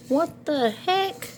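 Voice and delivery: high, slow amazed wonder. Real, not acted. Grandma marveling at her grandson, high slow amazement. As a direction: stretch it out in disbelief.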